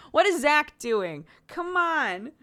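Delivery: high, loud exasperated cry breaking into laughter; high laughing outburst of disbelief; mock exasperation. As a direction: throw up your hands at Zach, laughing. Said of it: "And I'm like".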